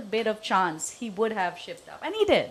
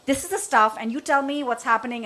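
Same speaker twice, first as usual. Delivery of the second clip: talk-down tone; 3 semitones higher than usual. Retold or imitated. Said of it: "That's my tone".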